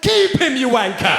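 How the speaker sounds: put-on drunken white lad hollering high; rowdy white bloke. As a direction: bellow it like a lad on the terraces. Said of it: "White people are like".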